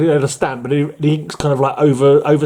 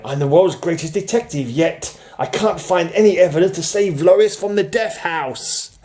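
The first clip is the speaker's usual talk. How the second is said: Batman; 6 semitones higher than usual. Acted. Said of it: "And Batman's going".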